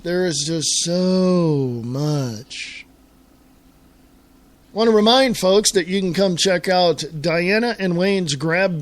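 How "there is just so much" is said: very slow, dragging every word; slow, heavy "There is just so much"; drawn-out weary repeat. Real, not acted. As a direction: stretch it out like it's overwhelming. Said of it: "Oh, there's just so much".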